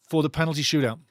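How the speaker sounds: normal talking voice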